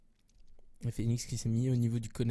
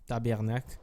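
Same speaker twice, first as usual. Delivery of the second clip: put-on a shaky stab at a Québec French accent; clumsy Québec accent, half laughing at yourself. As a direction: ham up a Québécois twang, not quite landing. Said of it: "Accent de Québec".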